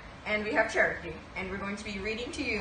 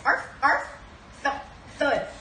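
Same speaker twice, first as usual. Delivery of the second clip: playful puppy barks; 5 semitones higher, 4 dB louder than usual. Acted. Puppy noises read aloud.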